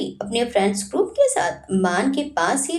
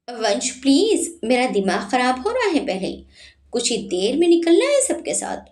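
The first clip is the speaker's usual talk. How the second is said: irritated. Acted. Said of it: "Sanjana चिढ़कर बोली".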